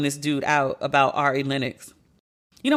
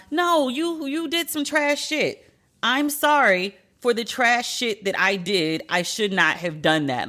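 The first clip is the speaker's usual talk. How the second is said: sincere apology; 4 semitones higher than usual. Pretend. Voicing a proper sincere apology.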